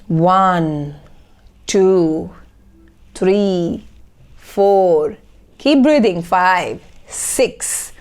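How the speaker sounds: slow, spaced-out counting, each number held; slow breathing count. Shown as a demonstration. Coach leading viewers through six counts of breathing, slow count. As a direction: count slowly in time with one long in-breath. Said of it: "For the six counts, you will breathe in".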